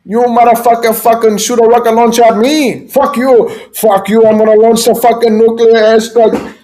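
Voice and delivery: high-pitched caricature dictator rage; hammed-up furious tantrum; Kim Jong-un. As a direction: rant like a tyrant losing at a video game. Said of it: "he's like".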